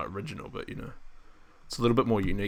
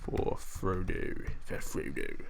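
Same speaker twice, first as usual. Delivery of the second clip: whispering; 4 semitones lower, 4 dB quieter, much slower than usual. Retold or imitated. Whispering along with the film.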